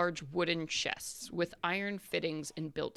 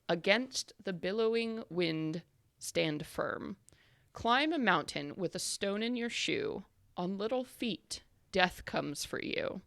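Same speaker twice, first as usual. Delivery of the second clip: slow, measured riddle reading. Acted. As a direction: read it like an ancient inscription. GM reads riddle inscription.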